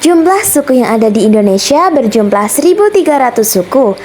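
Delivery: bright, brisk announcer read over music; presentation read. Acted. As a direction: present the facts to the class. Opening presenter-style info read.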